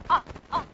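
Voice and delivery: "ah" cut short by closing the throat; short, abrupt "ah" with a catch in the throat; glottal stop. Shown as a demonstration. Teacher isolates the sound for students, "ah" as a glottal stop. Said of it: "The glottal stop".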